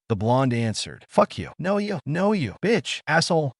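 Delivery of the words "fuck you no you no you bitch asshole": high, rapid-fire angry insults; roaring. A narrator's reading. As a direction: roar the insults at him. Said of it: "Midna said with a roar".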